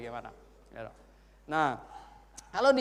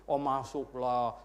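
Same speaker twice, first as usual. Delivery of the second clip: lower, drawn-out mock confidence; breezily sure; 4 semitones lower, much slower than usual. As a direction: stretch it as if obviously so. Acted self-assured churchgoer's answer.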